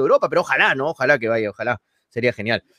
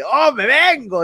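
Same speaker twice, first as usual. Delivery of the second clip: drawn-out, higher hammed-up moan, slower; mock moan; 7 semitones higher, slower than usual. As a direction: stretch it out like a cheesy climax. Acted viewer comment, moaning exclamation.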